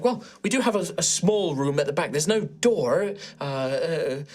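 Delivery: a hint of a fussy hostess; lightly voiced cafe owner. Maeve offers the doorless back room, lightly fussy.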